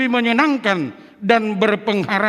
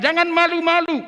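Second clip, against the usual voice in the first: higher, urging don't be shy; firm exhortation; 9 semitones higher than usual. Shown as a demonstration. Preacher urging elders not to be shy, emphatic. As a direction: call it out with conviction. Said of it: "Dengan tegas mengatakan".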